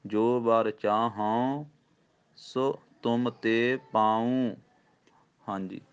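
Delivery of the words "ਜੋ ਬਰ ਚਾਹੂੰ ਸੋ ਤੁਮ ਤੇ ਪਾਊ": slow, with a nasal ਚਾਹੂੰ and a pause after it; teacher models nasal ਚਾਹੂੰ; slow recitation demo. Shown as a demonstration. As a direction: recite ਜੋ ਬਰ ਚਾਹੂੰ, break, ਸੋ ਤੁਮ ਤੇ ਪਾਊ. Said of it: "ਬਿੰਦੀ ਦਾ ਵੀ ਉਚਾਰਨ ਕਰਨਾ ਹੈ".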